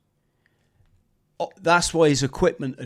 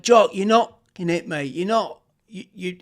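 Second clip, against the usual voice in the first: urgent yelling; 5 semitones higher than usual. Retold or imitated. Reassuring downed mate under fire.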